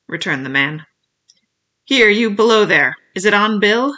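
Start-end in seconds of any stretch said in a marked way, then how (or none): 1.8-3.9 loud hail to those below; impatient shouted question; cried question. A narrator's reading. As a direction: call out and demand an answer. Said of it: "cried the blind man again".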